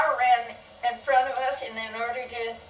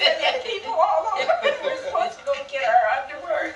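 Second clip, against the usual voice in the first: laughing to tears; 6 semitones higher than usual. Real, not acted. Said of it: "Not nice".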